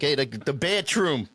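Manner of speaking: slow mock-Italian delivery; mock Italian accent. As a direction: put on an Italian guy's accent. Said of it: "I thought you meant the Italian guy".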